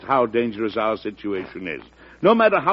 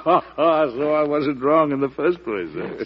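chuckling; 3 semitones higher, slower than usual. Acted. President teased about senator's protest.

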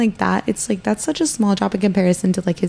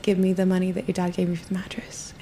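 God's voice; 7 dB quieter than usual. Retold or imitated. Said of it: "the Lord laid it on my heart".

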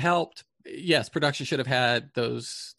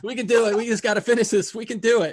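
pumped-up rally cry; 10 semitones higher, 7 dB louder than usual. Retold or imitated. Rallying the crew on set.

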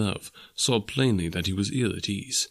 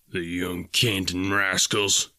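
exclaiming in disgust; slower than usual. Acted. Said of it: "he exclaimed".

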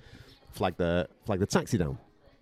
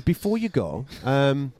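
wheedling ask; 5 semitones higher than usual. Retold or imitated. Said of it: "He says".

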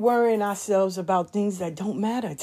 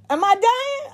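father's voice; 12 semitones higher, slower than usual. Retold or imitated. Dementia father asks daughter worriedly.

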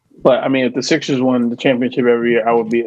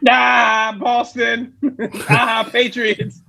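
laughing mock cheer; 8 semitones higher, much slower than usual. Mocking outsider reaction, laughing.

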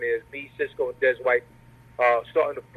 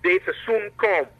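slow, higher Jamaican accent; retry it in a Jamaican accent; 6 semitones higher than usual. Shown as a demonstration. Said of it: "Take two".

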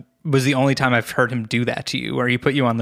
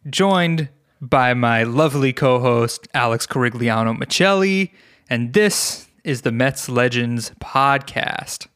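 Rob Pearsall. Acted. Guest editor imitating the absent co-host's show intro, measured cadence. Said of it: "I'm gonna hit you with a Rob".

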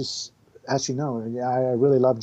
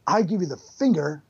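Keanu Reeves impression. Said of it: "Keanu Reeves".

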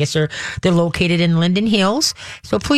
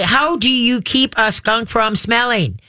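telling a dad joke; 5 semitones higher, slower than usual. Shown as a demonstration. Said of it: "Dad joke, dad joke".

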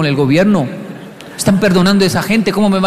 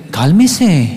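lower, drawn-out mock calming; son's hidden meaning; 4 semitones lower, 3 dB louder than usual. Son putting dad in his place, low mock calming. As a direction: coolly tell dad to settle down. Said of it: "en realidad me está diciendo es".

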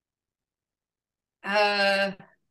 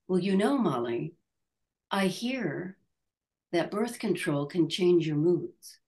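lightly voiced calm mother, a touch softer; calm mom; 4 semitones lower, 4 dB quieter than usual. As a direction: imitate mom's calm, offhand hint.

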